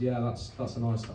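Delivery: half-hearted Scouse attempt; Liverpool accent. Dealer eyeing the student's telly, half-hearted Liverpool accent. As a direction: start a Liverpool accent and give it up. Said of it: "I'm not doing the accent".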